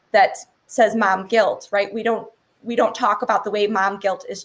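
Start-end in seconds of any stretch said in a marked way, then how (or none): none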